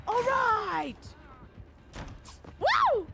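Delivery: loud, high celebratory whoop; excited whoop. Real, not acted. Streamer cheering to the chat, loud excited whoop.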